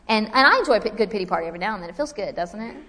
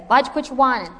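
mock scolding; 3 semitones higher, 3 dB louder, faster than usual. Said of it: "He doesn't say".

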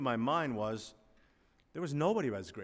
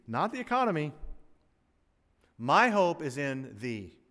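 rising preaching; 4 semitones higher, 6 dB louder than usual. Real, not acted. Preaching climax, rising force.

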